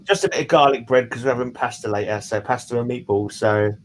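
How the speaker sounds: chewing with mouth full. Real, not acted. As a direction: talk through a mouthful of garlic bread. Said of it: "I'm probably chewing too loudly with my mouth open".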